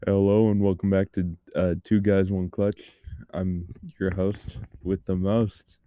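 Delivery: lightly put-on radio host; a half-hearted host intro; radio show host voice. Shown as a demonstration. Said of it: "radio show host voice".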